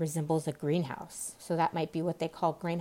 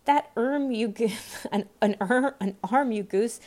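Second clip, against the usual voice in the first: mildly cross, raised scolding; scolding rabbit; 4 semitones higher, 4 dB louder than usual. A narrator's reading. Rabbit scolds his servant.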